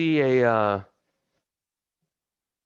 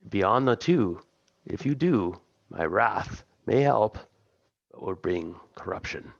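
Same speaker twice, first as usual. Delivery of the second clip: lightly voiced imperious god with long pauses; otherworldly patron. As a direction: draw the words out like a disturbed deity. Game master voices patron warning.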